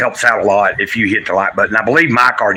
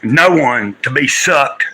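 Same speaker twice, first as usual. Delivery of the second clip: slow, grave spoken-word delivery; solemn recitation; much slower than usual. Acted. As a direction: declaim it slowly like a poem. Dramatic recitation opening the stream.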